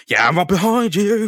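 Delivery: mock-strained, high reply; strained Spider-Man, breaking into laughter. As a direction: answer as if straining under a load. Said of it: "he's clearly gonna sound strained".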